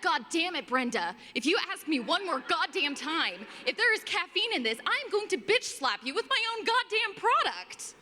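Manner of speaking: unload the pent-up rant, half-shouting; hammed-up imagined outburst at a customer; inner rage. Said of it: "I am losing my shit".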